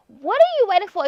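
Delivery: fed-up call-out; loud demand. Acted. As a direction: throw the question at him. Exasperated at boyfriend.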